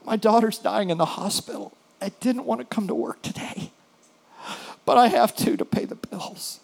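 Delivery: mildly imitating a weeping clerk, breaking to a breathless hush; mock weeping. Clerk tells the pastor about her dying daughter, understated weeping. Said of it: "She starts weeping".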